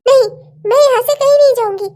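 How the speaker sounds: wife defiantly refusing to leave; defiant refusal. Acted. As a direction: dig in and refuse.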